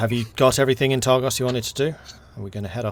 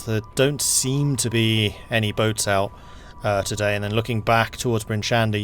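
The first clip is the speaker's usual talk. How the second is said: game master narration; 4 dB louder than usual. Acted. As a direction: paint the snowy road calmly. GM narrates the journey.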